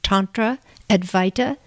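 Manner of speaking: measured, scripted host introduction; podcast intro read. Real, not acted. Host introduces guest researcher to listeners, scripted intro read. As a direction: read it out clearly as a prepared show opening.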